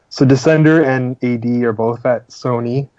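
hoarse, tired voice; losing the voice mid-sentence; voice giving out. Real, not acted. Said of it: "I'm losing my voice here".

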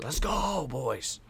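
high, held-back rallying cry; retold hype cheer. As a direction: imitate hyping the team without full volume. Reenacts hyping up his team.

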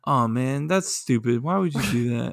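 mildly annoyed, understated grumble; barely bothered, low-key complaint; Chase. Retold or imitated. Imitating his friend's idea of pissed off, mild grumble. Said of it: "Chase's pissed off is like".

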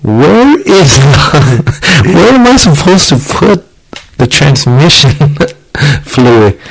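high, drawn-out question through laughter; laughing mock question. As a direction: ask it slowly, cracking up mid-sentence. Retelling his panicked question to dad, laughing.

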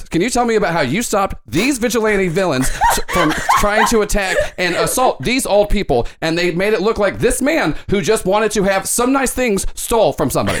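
lightly voiced leading-question reporter; a hint of a slanted anchor pushing his story; Ken De Niro reporter voice. Host grilling Greg about the vigilantes, mildly smug anchor. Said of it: "Does your voice always sound like that?".

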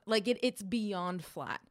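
ordinary talk

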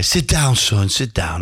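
a hint of the old boss's accent; Sir Bobby. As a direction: mimic the gaffer's accent as he seats a young player. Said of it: "I'll do his accent".

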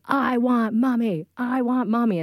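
put-on whiny toddler. Mother imitating her son refusing dad at bedtime. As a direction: imitate a defiant toddler's plea. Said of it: "And he says".

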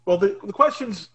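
talking while chewing; words round a bite of food; mouth full. Real, not acted. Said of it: "you're eating this thing".

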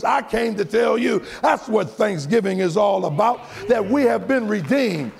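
preacher building to the altar call; preaching at full force. Acted. Preacher's closing climax.

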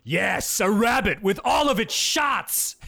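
mild mock chef voice; portly chef. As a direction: say it proudly like a clueless cook. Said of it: "the fat guy goes".

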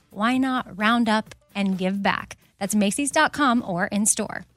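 upbeat host-read sponsor spot. Acted. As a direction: sell it like a friendly ad.

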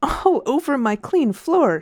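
whispered, slow and high; shocked whisper over the floor; dismayed whisper. A narrator's reading. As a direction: hiss it in horror at the mud. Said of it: "she cried".

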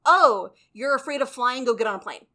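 dismissive. Acted. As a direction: brush off the fear and push them along. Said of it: "So it's not".

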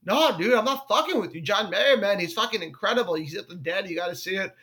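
lightly imitated Boston accent; Marshall. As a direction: reassure like a mock Boston buddy. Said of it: "who talks like this".

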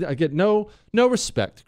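high, whiny complaint, lightly done; a hint of the no-respect comic; Rodney Dangerfield. Host complaining to Chris in a light mock whine. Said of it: "I sound like Rodney Dangerfield".

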